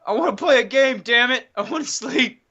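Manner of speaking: put-on high-pitched childish whining; mock tantrum. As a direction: whine it like an overtired kid. Mock tantrum about working so much.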